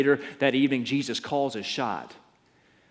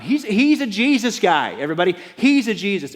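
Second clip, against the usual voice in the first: much higher, louder announcement to everyone; calling out; 9 semitones higher, 9 dB louder than usual. Acted. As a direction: tell the whole crowd. Girl shouts to the crowd.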